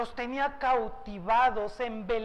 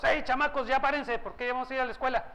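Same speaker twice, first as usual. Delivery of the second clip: put-on hurrying kids to school; 3 semitones higher, much faster than usual. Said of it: "Seguramente era otro tono de voz".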